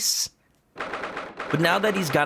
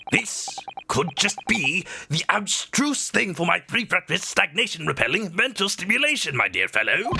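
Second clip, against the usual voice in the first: theatrical eccentric detective; lofty, rambling detective; Herlock Sholmes voice; 5 semitones higher than usual. Acted. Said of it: "missed doing his voice".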